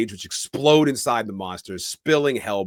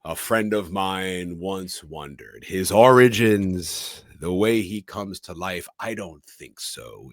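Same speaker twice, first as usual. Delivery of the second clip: film closing narration; 2 semitones lower, slower than usual. Acted. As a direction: intone it like a movie's final monologue. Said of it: "odd narration from a character".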